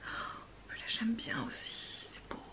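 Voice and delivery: hushed breathy whisper; whispered delight. Real, not acted. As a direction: murmur it in wonder. Admiring swatch, whispered.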